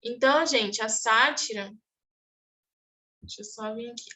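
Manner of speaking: ordinary talk, nothing marked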